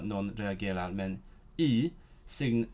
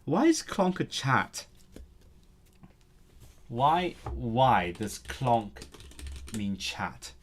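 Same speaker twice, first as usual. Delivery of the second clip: slow puzzled; slower than usual. Real, not acted. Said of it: "puzzled over word".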